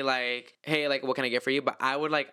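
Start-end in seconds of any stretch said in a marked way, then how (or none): 0.6-1.6 offhand, understated order-taker voice; other girls' greeting. Retold or imitated. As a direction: imitate an unenthused coworker taking an order. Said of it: "all the other girls would say".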